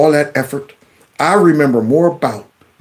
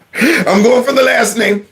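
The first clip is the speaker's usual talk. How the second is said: higher pitch, still giggling; through laughter; 6 semitones higher than usual. Real, not acted. Host bracing to try the last name, laughing. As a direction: talk on through real giggles.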